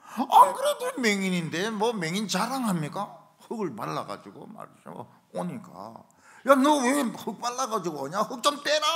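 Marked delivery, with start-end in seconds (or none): 0.0-3.3 loud, slow, high-pitched jeer; mocking bystander. Onlookers to the blind man, loud drawn-out mockery. 6.5-8.9 loud, high-pitched heckle; jeering bystander. Retold or imitated. Passer-by to blind man with mud on him, loud jeer.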